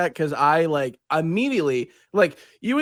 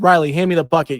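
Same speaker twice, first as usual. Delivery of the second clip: a bit louder second ask; repeated more urgently; 2 semitones higher, 4 dB louder than usual. Retold or imitated. To Riley who didn't hear, repeating it more urgently. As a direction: say it again, more pressing. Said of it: "you were like, "What?".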